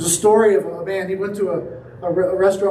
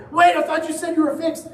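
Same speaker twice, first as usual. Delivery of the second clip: surprised protest; 7 semitones higher than usual. Retold or imitated. Waiter hit again, protests.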